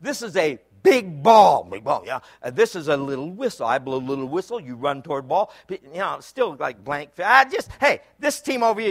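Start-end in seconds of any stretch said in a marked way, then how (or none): 0.0-5.5 slowed down. Retold or imitated. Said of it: "Let me slow the conversation down".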